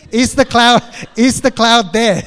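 playful teasing question. Acted.

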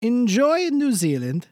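lightly voiced old showbiz guy; a hint of a grand old entertainer; Mister Del Rossi. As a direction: guest saying goodbye, lightly voiced. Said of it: "bye, Mister Del Rossi".

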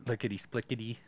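light attempt at a rapper voice. Shown as a demonstration. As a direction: say it in a rap voice. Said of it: "I can't do that".

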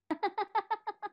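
sudden high laugh. Real, not acted. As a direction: break into laughter. Reader laughs.

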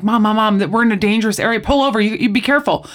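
put-on quick, mildly urgent child's plea; light imitation of a panicky little girl; retold child freaking out. Retelling a daughter warning mom from the backseat, mildly freaking out. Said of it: "her daughter starts freaking out in the backseat".

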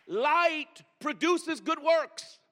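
stretched slow, each word weighed; slow, deliberate. Shown as a demonstration. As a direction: drag out "Light produces good works" slowly. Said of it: "Let me say that one more time".

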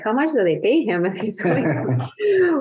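as if you can't believe the math; incredulous. Retold or imitated. Wondering aloud what the agency paid him, incredulous. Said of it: "I'm like".

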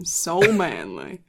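low mock manly voice; deep voice. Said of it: "Deep voice".

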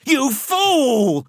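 high, loud hysterical woman's cry; hysterical shout. A narrator's reading. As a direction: shriek it with wild hysteria. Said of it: "shouted Missus Ruddock, a note of wild hysteria in her voice".

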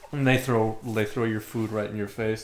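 ordinary talk

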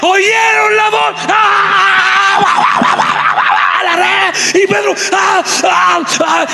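very high shouted cheers; squealing fish. Acted. Fish heading to the net, high squealing cheers. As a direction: scream with joy like a swarm.

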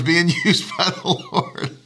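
words breaking into a laugh. Real, not acted. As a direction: let real laughter bubble through the words. Amused at his own unwitting part.

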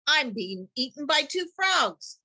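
hammed-up bug wailing; squealing fly. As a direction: panic like a tiny trapped fly. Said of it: "squealed the fly".

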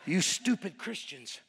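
low, slow mock growl. Seatmate growls at the evangelist on the plane, growling. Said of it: "He was growling".

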